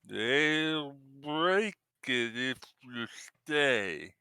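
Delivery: slow, high, struggling raspy voice; raspy creature voice. Acted. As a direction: rasp the words out like something half-human. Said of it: "a rather raspy voice that can't quite seem to form words well".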